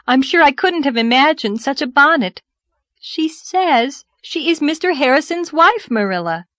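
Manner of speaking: high, loud, emphatic news-breaking; excited, astonished girl. Acted. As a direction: build up to the big reveal.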